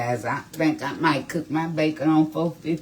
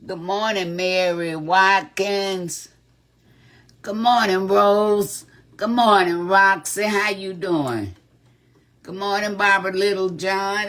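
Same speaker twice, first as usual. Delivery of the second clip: cheerful calling out; 6 semitones higher, 5 dB louder than usual. Real, not acted. Greeting viewers by name.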